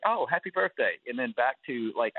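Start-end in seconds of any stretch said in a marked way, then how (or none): 0.0-1.0 high, breezy brush-off; dismissive. Retold or imitated. Fan to Shelley on her birthday, dismissive brush-off. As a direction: toss it off without really meaning it. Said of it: "sorta dismissively".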